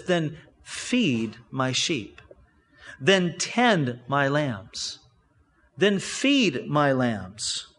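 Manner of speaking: gentle instruction. Retold or imitated. Jesus gently instructing Peter.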